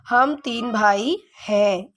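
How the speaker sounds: हम तीन भाई हैं read out slowly, word by word; correct sentence, slow and clear. Shown as a demonstration. Teacher reading the corrected sentence slowly to pupils. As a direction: dictate it slowly for the class. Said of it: "ये सही होगा".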